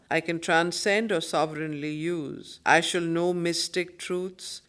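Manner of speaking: measured verse reading, set apart from the chat; poem recitation. Acted. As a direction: read the lines out with weight. Rereads the verse between comments.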